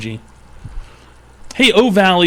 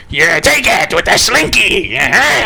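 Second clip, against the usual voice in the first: a hint of a sadistic father, slower; taunting dad; 4 semitones higher than usual. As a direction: gloat over it like a cruel dad.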